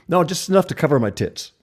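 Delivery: high, loud woman's voice for the joke; bright-pitched comic reply from the customer; woman's punchline. Acted. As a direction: pitch it up and toss off the correction.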